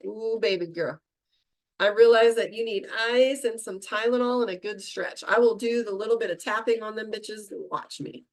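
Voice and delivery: lightly voiced, coaxing her own body; a hint of tender pampering; soothing self-talk. Patting her shoulder, gently coaxing her sore body. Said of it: "I like to pat my shoulder".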